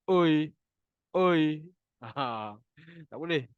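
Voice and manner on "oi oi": oi with the back tongue pulled, lips slack; wrong oi. Shown as a demonstration. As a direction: show the wrong oi. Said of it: "dia sebut macam ni dah".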